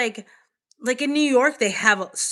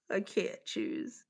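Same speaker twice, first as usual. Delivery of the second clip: slow, soft whispered despair; 10 dB quieter, slower than usual. Real, not acted. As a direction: whisper it slowly, torn between them. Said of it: "whispered indecision".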